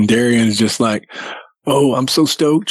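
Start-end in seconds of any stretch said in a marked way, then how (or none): 1.7-2.7 giddy quote pitched a bit higher; giddy, happy. Retold or imitated. Daughter-in-law happy about going Bigfooting, mildly giddy. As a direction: imitate a thrilled, stoked woman. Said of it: "She's happy ... just giddy".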